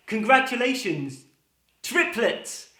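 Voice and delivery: high, loud bright announcement; cheery nurse. Acted. Nurse tells second father he has triplets, chirpy and high. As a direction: sing out the news.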